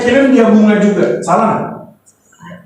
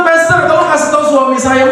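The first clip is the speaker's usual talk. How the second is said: higher-pitched mock plea to the pastor; complaining wife; 4 semitones higher than usual. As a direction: appeal as a fed-up wife. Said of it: "Terus istrinya komplain". (istri mengadu)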